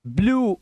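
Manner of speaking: ब्लू as a held "bloo"; "oo" sound. Shown as a demonstration. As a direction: model ब्लू with pure उ, no "you". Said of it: "उ की आवाज".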